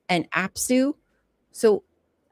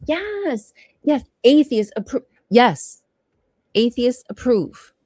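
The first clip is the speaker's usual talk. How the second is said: gleeful cheer; 4 semitones higher, 4 dB louder than usual. Real, not acted.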